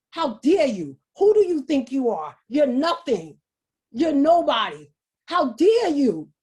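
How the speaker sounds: mildly indignant, emphatic scolding; scolding inner voice. Acted. Inner critic putting the speaker down, mildly scolding. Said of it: "And then there's this other voice".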